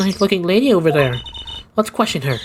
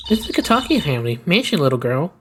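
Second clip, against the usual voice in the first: put-on old lady voice. Voicing the lady character.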